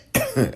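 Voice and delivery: sudden dry cough; coughing fit. Real, not acted. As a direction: cough mid-list, choking a little. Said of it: "I'm choking up here".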